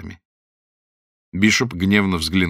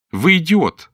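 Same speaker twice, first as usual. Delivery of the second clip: выше и громче, с презрением; бросить оскорбление свысока; презрительно; 9 semitones higher, 6 dB louder, slower than usual. A narrator's reading. Лорд смеётся и оскорбляет. (лорд презрительно бросает капитану)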